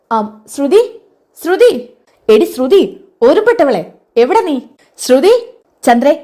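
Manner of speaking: calling out angrily. Acted. Aunt storming in shouting for Sruthi. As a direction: yell her name through the house.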